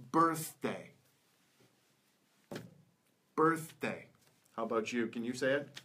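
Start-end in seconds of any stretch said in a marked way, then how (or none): 0.1-0.9 "birthday" in two careful beats, clear th in the middle; middle th demo. Shown as a demonstration. Teacher models word with th in the middle, careful "birthday". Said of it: "a word that th comes in". 3.4-4.0 "birthday" in two careful beats, clear th in the middle; middle th demo. Shown as a demonstration. Teacher models word with th in the middle, careful "birthday". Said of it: "a word that th comes in".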